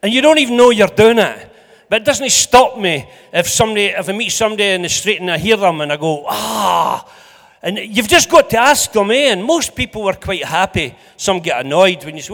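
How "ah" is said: long drawn-out "aah" of recognition; imitated delighted "ah". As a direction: let out a long, acted "aah". Delight on hearing an accent.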